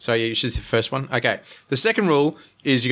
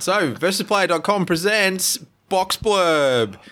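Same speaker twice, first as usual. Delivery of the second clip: announcer voice; 6 semitones higher, much slower than usual. Acted. Announcing the game title.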